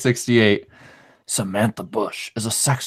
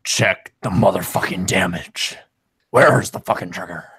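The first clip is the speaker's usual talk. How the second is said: a lower, gruff tough-guy growl, lightly done; low deep voice; 4 semitones lower than usual. Pretend. Reading a chat joke on the podcast, in a low deep voice. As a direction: put on a deep action-hero voice. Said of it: "I'll say it in a low, deep voice".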